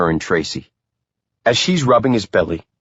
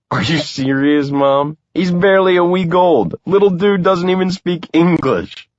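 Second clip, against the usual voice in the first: protesting; 10 semitones higher than usual. A narrator's reading. Son protests to mom.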